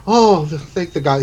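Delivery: high exclamation falling away; acted joyful relief; happy relief. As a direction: gasp out your thanks, overjoyed. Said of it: "He's just happy".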